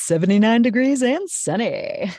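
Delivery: big, high, loud broadcaster delivery; hammed-up announcer voice; hard radio announcer. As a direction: punch it out like a radio weather announcer. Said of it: "hard broadcasting announcer".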